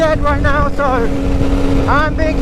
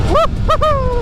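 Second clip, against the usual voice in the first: excited whoop; 12 semitones higher, slower than usual. Real, not acted. Cheer during standing wheelie.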